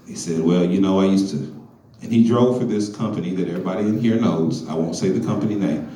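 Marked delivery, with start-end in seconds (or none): 0.4-1.4 lightly voiced caller, low and hushed. Caller phoning Lason with a confession, low and hushed.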